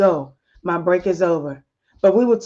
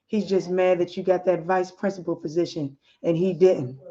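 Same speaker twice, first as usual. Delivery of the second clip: lower, calm and reassuring; 3 semitones lower than usual. Acted. Husband calms his upset wife over the phone, calm and reassuring. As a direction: soothe her gently like a loving husband. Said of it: "In a calm voice".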